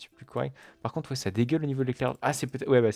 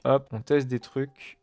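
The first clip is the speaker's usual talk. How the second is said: slow; much slower than usual. Real, not acted. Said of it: "J'ai dit on teste des trucs".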